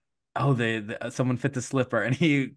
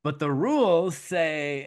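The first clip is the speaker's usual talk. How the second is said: haughty objection; 5 semitones higher, slower than usual. Pretend. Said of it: "And Lady Tremaine is like".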